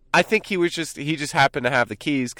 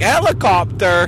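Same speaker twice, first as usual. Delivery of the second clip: high, drawn-out startled question; surprised question; 7 semitones higher, 6 dB louder than usual. Retold or imitated. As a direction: echo it back louder, high and slow in mock surprise. Acting out reaction to the slip.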